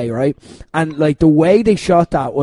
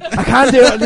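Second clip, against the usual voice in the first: usual speaking voice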